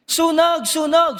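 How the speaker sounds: high-pitched playful cry of fire; mock fire alarm. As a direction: shout fire again, hamming the prank. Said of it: "Sumigaw siya ulit". (mataas na pasigaw na Sunog)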